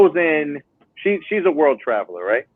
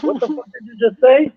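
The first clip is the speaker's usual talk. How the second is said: higher-pitched incredulous comeback; retold disbelief; 11 semitones higher than usual. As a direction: act out being baffled by her. Retelling his baffled reaction to her.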